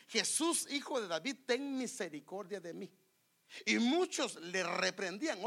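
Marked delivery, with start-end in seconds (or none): 0.1-2.9 retold crying out. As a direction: call out for mercy, imitating the man. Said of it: "comenzó a gritar". (clamor imitado que va bajando)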